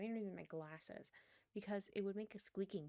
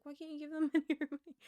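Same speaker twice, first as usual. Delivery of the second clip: louder, higher and quick, in disbelief; incredulous outburst; 6 semitones higher, 12 dB louder, much faster than usual. Retold or imitated. Retelling how she reacted to her friend's Walmart ban, in a loud disbelieving outburst. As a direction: blurt it out like you can't believe it.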